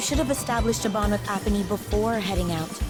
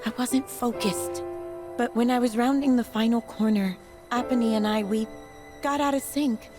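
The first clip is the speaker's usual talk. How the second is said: regretful confession; 3 dB quieter than usual. Acted. Confessing the accident.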